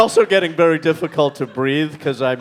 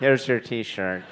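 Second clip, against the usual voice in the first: slow Queens accent with a laugh; laughing through a New York vendor line; 7 semitones lower, 7 dB quieter, slower than usual. Shown as a demonstration. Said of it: "That's my New York accent".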